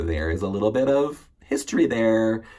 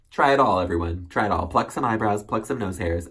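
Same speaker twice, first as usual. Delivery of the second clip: loud, punchy dare; emphatic urging; 3 semitones higher, 5 dB louder than usual. Real, not acted. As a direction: challenge the audience loudly. Urging viewers to feel pain.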